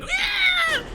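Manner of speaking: high screeching alien cry; alien shriek. Retold or imitated. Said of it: "the alien goes like".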